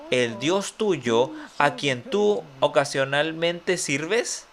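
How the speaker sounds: slow, teasing wrong reading of "ocasionalmente"; deliberate misquote. Shown as a demonstration. Preacher misreads the verse to the congregation, slow and teasing. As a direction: drag out "a quien tú ocasionalmente sirves" as a mock error. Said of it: "No, eso no es lo que dice".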